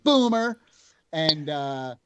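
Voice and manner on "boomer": higher, louder mock "Boomer"; teasing taunt. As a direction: taunt the old villain playfully. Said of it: "And, like".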